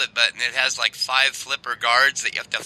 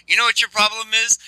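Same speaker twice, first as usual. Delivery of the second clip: higher-pitched mock South African accent; Joe Pesci; 8 semitones higher than usual. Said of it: "Joe Pesci was in the back seat".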